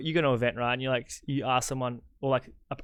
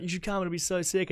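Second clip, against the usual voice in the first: upbeat, higher-pitched sales pitch; psyched invitation; 6 semitones higher than usual. Retold or imitated. Organiser re-enacts early invites to the tour, psyched. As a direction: pitch it keenly to a mate. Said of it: "like, psyched on it".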